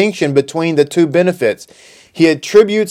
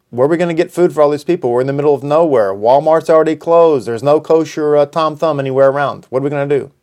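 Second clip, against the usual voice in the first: fast, fretting rush of questions from the disciples; worried disciples; faster than usual. Acted. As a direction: blurt out the panicked questions quickly. Disciples voiced worrying about food.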